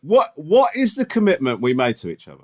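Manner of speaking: lightly voiced stern teacher quizzing; a hint of a strict teacher asking about homework; mock teacher. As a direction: scold him like a schoolteacher. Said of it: "This is you as a teacher".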